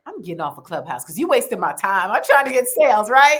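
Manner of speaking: mock exasperation. Telling the host her Clubhouse frustration, a mock huff. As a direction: huff about wasted time.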